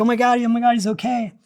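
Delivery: a mild imitation of an overjoyed wife; half-hearted mock shriek of relief; retold screaming. Wife relieved husband recovered, mild mock excited cry. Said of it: "she starts screaming and yelling".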